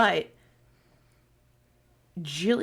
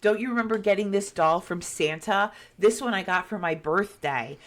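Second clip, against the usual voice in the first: lightly voiced twins, higher pitch; a hint of children claiming their things, higher; imitated excited little girls; 4 semitones higher than usual. Twin girls pulling at their old toys, imitated delight. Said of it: "they're like".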